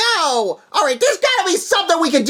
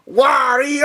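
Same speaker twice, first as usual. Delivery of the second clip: Wario wail; 3 semitones lower than usual. Acted. Wario crying out at Mario.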